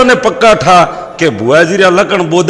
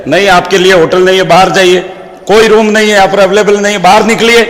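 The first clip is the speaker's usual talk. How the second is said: acted angry dismissal, building higher; heated receptionist; 3 semitones higher, faster than usual. Receptionist refusing a room and ordering guests out, angry. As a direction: rattle off a cross refusal, getting more heated. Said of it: "madam इतनी गर्म बेगी".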